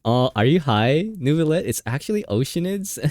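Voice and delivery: imitating Paimon. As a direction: correct the dragon through giggles. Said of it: "I was thinking Paimon's gonna be like".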